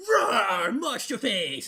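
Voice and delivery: loud playful monster roar; mock roar. Edgelord growling at his mockers, loud mock roar. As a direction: roar it at them like a beast. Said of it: "be like".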